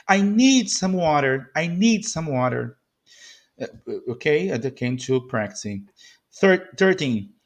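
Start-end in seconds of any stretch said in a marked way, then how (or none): 0.1-2.8 need and water given the weight; stressed key words. Shown as a demonstration. Teacher showing two stressed words, weight on need and water. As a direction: punch need, then water. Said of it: "we can stress in this phrase".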